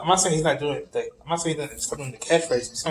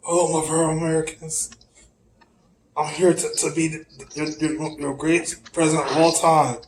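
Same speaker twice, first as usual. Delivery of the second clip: Trump impression; 2 semitones higher than usual. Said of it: "Why the hell did you sound like that guy?".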